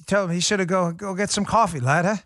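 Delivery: badly faked English accent; terrible English accent. Host jokes about sending the lad for coffee, bad English accent. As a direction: put on a clumsy English accent. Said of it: "really terrible English accents".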